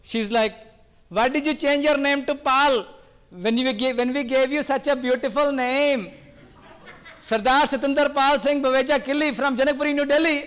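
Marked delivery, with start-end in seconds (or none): 1.1-10.4 mildly indignant mother, a little higher; mock-scold your son like an offended mom; furious mom. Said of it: "My mom was furious".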